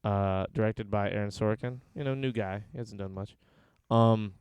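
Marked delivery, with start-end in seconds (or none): 1.9-3.3 dry sarcastic understatement; deadpan sarcasm, mock sincere. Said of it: "Was that sarcasm?".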